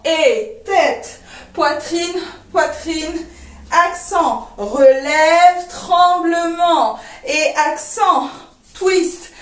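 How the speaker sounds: slow, drawn-out cues with beat-long gaps; dance teacher calling steps without music; rhythmic count-through. Shown as a demonstration. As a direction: count in, then call each move in time. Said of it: "on refait encore une fois sans la musique".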